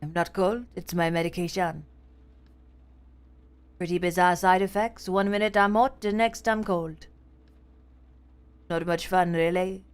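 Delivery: tired detective, lightly voiced; a hint of a cold, worn-out cop; dragging voice. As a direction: let the words drag, weary. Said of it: "His voice drags".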